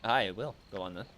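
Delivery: put-on pirate accent. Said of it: "I'm trying to do it in the accent".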